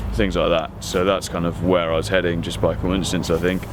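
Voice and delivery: kept low in one unvarying, monotonous tone; deep monotone. Shown as a demonstration. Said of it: "ended up just talking like this".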